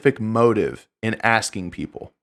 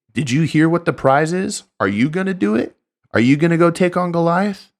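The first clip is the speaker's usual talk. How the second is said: higher, eager rallying questions; 7 semitones higher than usual. Retold or imitated. David stirs up the soldiers, eager and rising. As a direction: egg the soldiers on, rising hopefully. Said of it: "trying to bolster the hearts".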